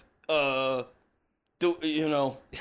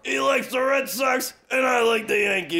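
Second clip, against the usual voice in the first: shouting; 5 semitones higher than usual. Acted. Comic bit, shouting about a feud.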